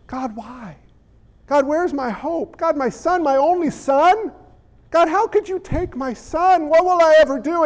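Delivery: grieving widow's plea. Retold or imitated. The widowed mother crying out to God over her dead son, mildly mournful.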